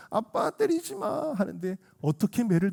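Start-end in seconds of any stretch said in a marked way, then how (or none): 0.1-1.3 very high, stretched begging; mock-tearful plea to dad; tearful child's plea. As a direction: imitate a small boy near tears. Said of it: "형이 눈물을 글썽거리면서".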